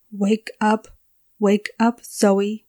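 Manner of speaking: mildly panicked, urgent plea. A narrator's reading. Zoe tries to wake herself from the nightmare, mildly panicked. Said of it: "Her voice panicked once more".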